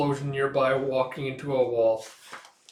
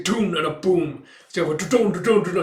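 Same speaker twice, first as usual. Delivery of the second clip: imitated explosions; 4 semitones higher, 7 dB louder than usual.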